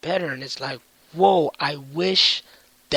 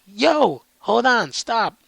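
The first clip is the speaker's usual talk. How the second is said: higher, louder stop call; urgent higher yell; 6 semitones higher, 7 dB louder, much slower than usual. Retold or imitated. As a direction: shout them to stop. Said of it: "they're like".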